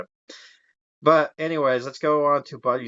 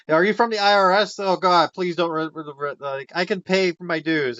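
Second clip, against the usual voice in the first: panicked pleading; 5 semitones higher, 3 dB louder than usual. Retold or imitated. Buddy mistakes visitor for taxman.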